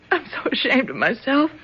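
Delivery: laughing through the words; embarrassed laugh as she admits it; rueful laugh. Acted. Lynn laughing at herself, ashamed, to Bill.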